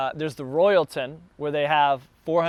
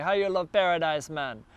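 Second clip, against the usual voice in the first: put-on light Jamaican accent, mostly own voice; a hint of Jamaican accent, playful. Tourist imitating a Jamaican local in Jamaican accent. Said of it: "that's my Jamaican accent".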